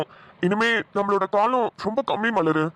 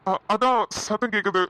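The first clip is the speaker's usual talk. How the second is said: nervous stammer. Acted. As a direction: fumble the cover story. Husband covering up, nervous lie. (மெதுவாக தடுமாறி பொய் சொல்வது)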